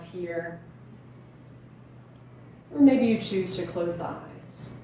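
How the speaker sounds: calm meditation teacher with long, unhurried pauses; guided meditation. Real, not acted. Yoga teacher inviting viewers to breathe into the belly, calm guiding voice. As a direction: gently guide listeners into stillness and breath.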